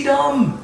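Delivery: dumb said high and final; word dumb. Shown as a demonstration. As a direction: land the word dumb as a punchline. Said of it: "D U M B".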